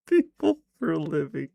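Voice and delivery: laughing through the words; cracking up in disbelief. Real, not acted. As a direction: laugh as you repeat it. Laughing repeat of quote.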